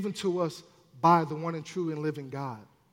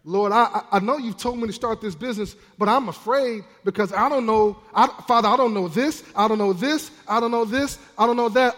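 mock anxious pleading; 3 semitones higher, 5 dB louder than usual. Acting out anxious prayer about business.

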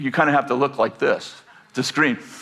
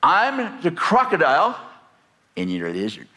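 put-on bossy little girl. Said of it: "Misha says".

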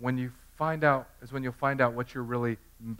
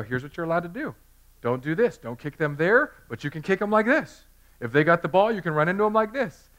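eager, higher coaching voice; hyped-up dad showing the moves, louder and higher; coaching my son; 5 semitones higher, 6 dB louder than usual. Retold or imitated. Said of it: "So I'd show Jackson a video".

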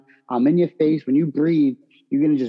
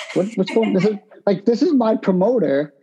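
laughing disbelief; 6 semitones higher than usual. Retold or imitated. Retelling his shock at the press conference.

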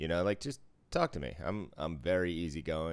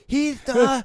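high, loud stammering mock voice; a sudden high yelp of a gambler; imitating a flustered gambler; 14 dB louder than usual. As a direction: squeak it out like a caught-out gambler.

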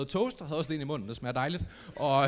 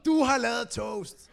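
unimpressed flatmate; 6 semitones higher, slower than usual. Retold or imitated. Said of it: "Og Mads var meget sådan".

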